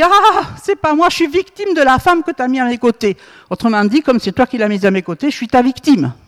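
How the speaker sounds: mock-plaintive, passing the blame; whiny excuse. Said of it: "Adam a dit".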